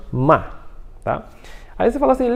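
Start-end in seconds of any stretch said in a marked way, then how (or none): 0.1-0.5 "ma" firme, no tom forte; quarto tom, forte. Shown as a demonstration. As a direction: solte "ma" com força, como o último tom. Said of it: "ele é o forte". ("ma" no tom forte)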